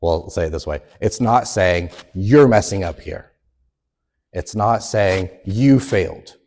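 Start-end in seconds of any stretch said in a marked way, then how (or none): 2.2-3.3 louder, blaming jab; mock accusation. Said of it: "accusing, aggressive way". 5.5-6.4 louder, blaming jab; mock accusation. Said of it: "accusing, aggressive way".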